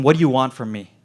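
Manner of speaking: exasperated cry of what do you want from me. Retold or imitated. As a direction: demand an answer, at the end of your rope. Desperate plea to the doctor.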